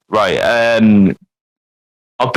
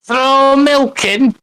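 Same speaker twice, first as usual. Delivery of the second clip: mock Yorkshire; 9 semitones higher than usual. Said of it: "associated with Yorkshire".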